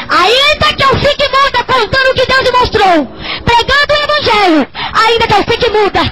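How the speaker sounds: high, full-force declaration of faith; defiant preaching cry. Real, not acted.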